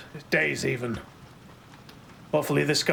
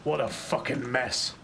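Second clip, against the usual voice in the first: slow, softer disgusted remark; 4 dB quieter, slower than usual. Acted. Marshal looking over the bloody spy and the wrecked office, slow and disgusted. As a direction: let the disgust seep out slowly under the breath.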